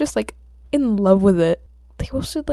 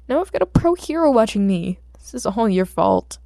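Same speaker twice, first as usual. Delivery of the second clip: frustrated outburst; 2 semitones higher, 5 dB louder than usual. Acted. Izuku blames the drive.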